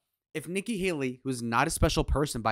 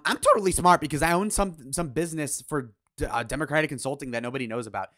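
mocking smug guy; 5 dB louder than usual. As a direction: sneer it like a self-satisfied pundit. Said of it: "See what a douche this guy is".

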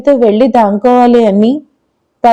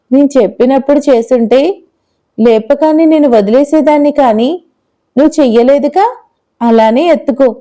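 lightly voiced little girl; 2 semitones higher than usual. Smug girl.

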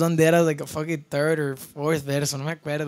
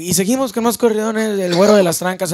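imitating a singer rallying the crowd, raised pitch; lightly mimicked stage hype; singer's stage announcement; 5 semitones higher, 4 dB louder than usual. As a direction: call it out like introducing the next corrido. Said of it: "I just hear Alex".

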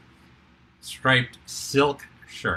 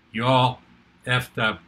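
deadpan; 3 semitones higher, 5 dB louder than usual. Retold or imitated. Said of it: "dead face, deadpan".

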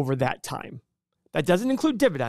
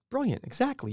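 mock praise; 8 semitones higher, 6 dB quieter than usual. Mock praise of client's answer.

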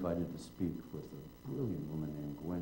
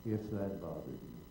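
loving voice. Retold or imitated. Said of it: "calmly says in a loving voice".

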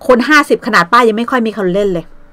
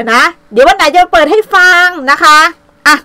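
mock weepy voice; 7 semitones higher, 6 dB louder than usual. Still mocking her voice.

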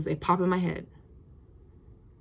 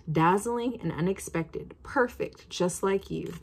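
reading the label. Acted. Reads perfume box description.

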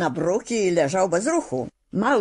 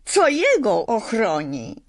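anxious question; 5 semitones higher than usual. A narrator's reading. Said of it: "zawołała dziewczynka z niepokojem w głosie".

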